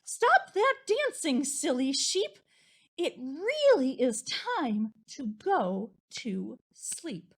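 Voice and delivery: high, loud mock scold; exasperated scolding. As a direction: scold the sheep, fed up. Exasperated parent.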